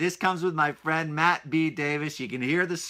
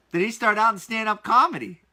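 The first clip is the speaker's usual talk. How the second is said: excited; 6 semitones higher, 4 dB louder than usual. Real, not acted. Amazed at stand-up.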